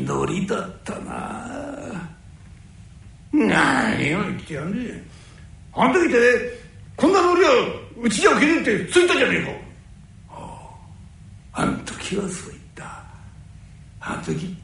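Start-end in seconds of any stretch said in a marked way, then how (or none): 5.7-9.5 angry. Acted. Tetsu angrily recalls the insult.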